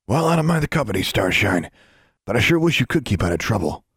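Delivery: high, friendly character voice; Mister Journey, genial supervisor. Acted. Mister Journey chides Alexandra about trouble, genial supervisor. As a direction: chide kindly in a lifted voice.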